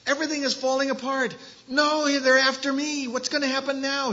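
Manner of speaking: high, fast, frantic inner voice; panicked thoughts. Acted. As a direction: thoughts racing out of control. Elijah's spinning, racing thoughts.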